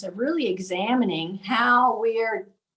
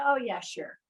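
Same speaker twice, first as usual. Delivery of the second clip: softly tossed-off, imitating a dismissive reply; dismissive brush-off; 6 dB quieter than usual. CEO brushing off a nursing home request, mildly dismissive. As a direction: mildly brush them off, voice dropped. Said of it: "she kinda blew me off".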